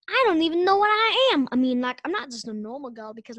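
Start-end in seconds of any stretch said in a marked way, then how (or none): 0.1-1.5 high, loud dismayed wail; shocked cry. Acted. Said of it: "and she's like".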